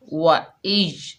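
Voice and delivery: drawn-out, slow chanted reading of वा इज; slow Quranic recitation. Shown as a demonstration. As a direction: recite वा इज slowly, lingering on each sound. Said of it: "इसको मजबूती और जमाओ से और थोड़ी देर रुक कर पढ़ते हैं".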